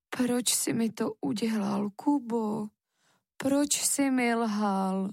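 understated sad reproach, slowing on the last question; a hurt mother asking why, gently and slowly. Acted. Mother asking Kuba why he lied, mild sadness. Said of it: "řekla takovým strašně smutným hlasem".

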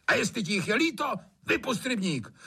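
fast, high scornful jab. A narrator's reading. Trautenberg scoffing at the gamekeeper, scornful. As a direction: toss it off with contempt.

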